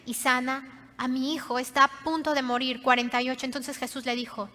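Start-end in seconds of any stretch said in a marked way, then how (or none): 0.0-2.8 mildly acted plea, stretched on ven y sana; begging. Father humbly begging Jesus for his dying son, mild plea. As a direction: plead humbly, in a retelling. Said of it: "le estaba rogando".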